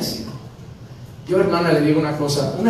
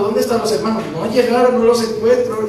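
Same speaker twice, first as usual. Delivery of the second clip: louder, higher worried calling for the missing brothers; anxious calling out; 4 semitones higher, 3 dB louder than usual. Retold or imitated. Roberto calling for the missing brothers, mildly worried and loud. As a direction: call out like a worried host searching.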